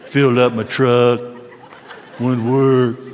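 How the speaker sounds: terse husband. Retold or imitated. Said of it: "You don't say".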